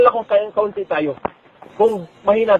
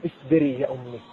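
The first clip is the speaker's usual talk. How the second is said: soft infant voice; 6 semitones lower, 9 dB quieter than usual. Acted. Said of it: "Nagulat siya".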